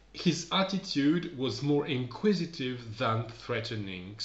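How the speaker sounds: slow, measured English reading; read-aloud for learners. Acted. Teacher rereads a sentence for learners, slow careful reading. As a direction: read it out slowly and deliberately.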